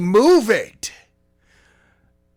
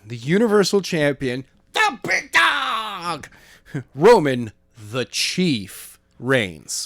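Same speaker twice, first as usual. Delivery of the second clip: ring announcer; 2 semitones higher, slower than usual. Pretend. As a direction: draw out the big dog like a hype man. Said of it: "let me redo that again".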